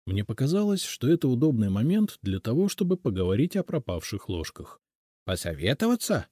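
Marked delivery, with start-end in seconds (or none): none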